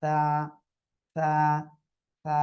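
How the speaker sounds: সা with tongue tip on upper teeth, light air escaping; lightly aspirated সা. Shown as a demonstration. Teacher models the letter for the class, lisped airy সা. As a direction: let a little breath out through the teeth on সা. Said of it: "হালকা বাতাস বের হবে".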